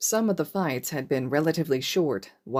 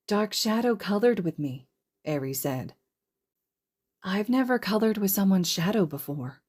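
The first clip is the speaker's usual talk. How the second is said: put-on child's voice; 4 semitones higher than usual. Eri, a small child.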